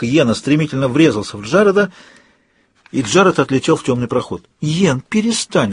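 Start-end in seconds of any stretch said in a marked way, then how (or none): 4.6-5.7 pleading. Acted. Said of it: "взмолилась я".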